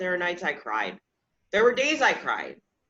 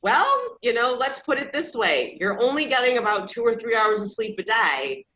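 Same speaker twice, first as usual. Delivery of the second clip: mock doctor voice; 3 semitones higher, 4 dB louder than usual. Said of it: "And I was like".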